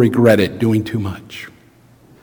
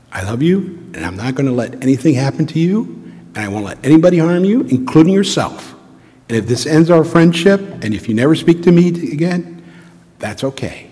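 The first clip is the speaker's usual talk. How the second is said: softer, earnest promise; softly telling an angry friend she is loved; tender; 4 dB quieter than usual. Retold or imitated. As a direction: say it gently as to a friend. Retold loving words to friend.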